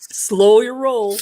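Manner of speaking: high, slow drawn-out playful warning; mock referee warning. Playing referee with warning cards.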